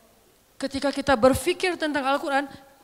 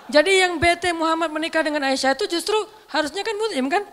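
laughing while talking; 6 semitones higher, 7 dB louder than usual. Real, not acted. Laughing at his own joke.

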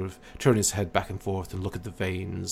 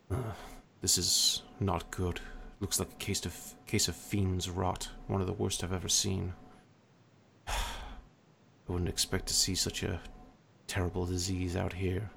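hushed tones; 7 dB quieter than usual. Acted. Odell confides to the other cleric about the illness, hushed. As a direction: keep it hushed between the two of you. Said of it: "speaking in hushed tones to each other".

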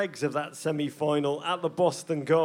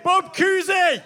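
put-on higher, slow shouted Boston accent; 11 semitones higher, 8 dB louder, slower than usual. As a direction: belt it in broad Boston accent. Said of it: "That was pathetic".

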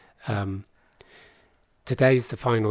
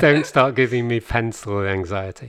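exasperated sister; 6 dB louder than usual. Retold or imitated. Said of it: "my sister went".

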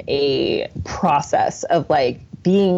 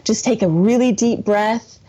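soothing mom; 3 semitones higher than usual. Retold or imitated. Calming her son, deep breath.

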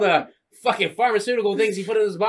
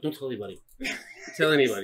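hushed warning; 6 semitones lower, 8 dB quieter, faster than usual. Retold or imitated. Priest hushing someone.

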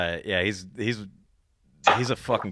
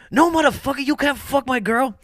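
put-on Mike's heavy accent; 4 dB louder than usual. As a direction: imitate a friend's heavy accent, indignant. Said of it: "his accent is so fucking heavy".

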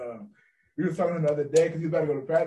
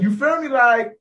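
imitating his friend's talk; 3 dB louder than usual. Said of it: "this is how he talks".

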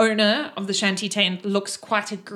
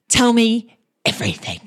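eager; 5 dB louder than usual. Acted. Toriel repeats greeting line.

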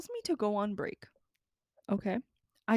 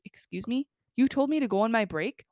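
indignant retort; 6 dB louder than usual. Retold or imitated. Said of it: "I didn't say it like that".

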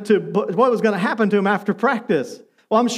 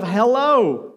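lightly sweetened hello; a touch of sugar in the greeting; sweetest tone. Retold or imitated. Retelling how she answered the phone, mildly sweet. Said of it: "the sweetest tone of".

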